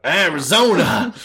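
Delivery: slow, high, loud call; drawn-out call. Retold or imitated. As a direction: stretch out Arizona as a shout. Mum calling out.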